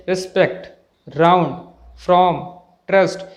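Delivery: रिस्पेक्ट, राउंड, फ्रॉम, ट्रस्ट with clear r; sounded r. Shown as a demonstration. Teacher lists examples, r fully sounded. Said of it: "आर की sound आती है".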